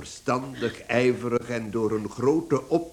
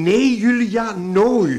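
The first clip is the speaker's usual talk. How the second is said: loud, higher, final no; a husband shouting his wife down; shouted refusal; 7 semitones higher, 9 dB louder, slower than usual. Acted. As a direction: slam the door on the idea. Father forbids wife firmly.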